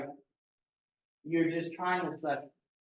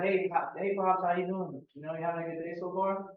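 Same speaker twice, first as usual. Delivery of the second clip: friendly. Shown as a demonstration. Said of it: "pretend you're calling your mom".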